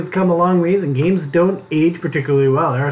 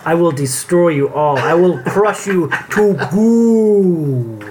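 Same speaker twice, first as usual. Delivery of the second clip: cold rasping evil emperor; slower than usual. Pretend. Mock threat about competitiveness.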